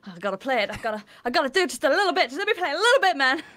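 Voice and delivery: craving plea. Retold or imitated. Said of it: "I'm going cold turkey".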